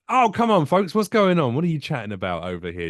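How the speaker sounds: comic mock call-out to a noisy table. Calling out to noisy drunk couple.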